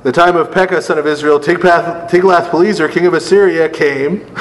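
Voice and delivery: reading aloud, lifted and steady; scripture reading. Acted. Teacher reads Kings to the class, scripture-reading voice. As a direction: read the verse out clearly to the group.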